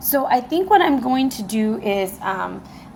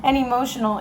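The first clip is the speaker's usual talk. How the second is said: higher-pitched, excited burst after a laugh; excited and emotional; 5 semitones higher than usual. Real, not acted. Reader confesses tingles all over from the moon, excited. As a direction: let real excitement lift the voice. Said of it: "getting super excited and emotional".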